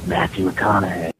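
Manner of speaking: loud, slow drawling movie-star voice; booming celebrity put-on; Matthew McConaughey impression. Caller doing a loud Matthew McConaughey voice. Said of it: "my impression is going into".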